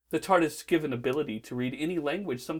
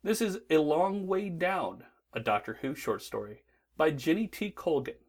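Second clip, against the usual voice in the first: announcer read. Acted. Hotline intro read.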